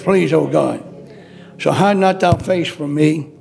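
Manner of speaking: a preacher crying out to God in prayer; earnest pleading prayer. Acted. Preacher praying aloud to God, earnest pleading. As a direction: beg God not to turn away.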